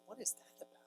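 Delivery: high, hushed, almost whispered puzzlement; baffled aside. Retold or imitated. Author recalls his thought at the ovations, hushed bafflement.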